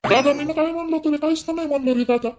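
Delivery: put-on whiny drunk plea. Drunk son pleads with brother.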